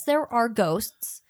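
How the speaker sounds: slow, hushed whisper; spooky whisper. Acted. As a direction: whisper it like a secret. Spooky aside about ghosts.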